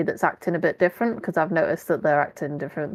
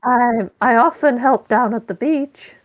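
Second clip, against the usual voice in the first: flirty Ken; 4 semitones higher, 4 dB louder than usual. Acted.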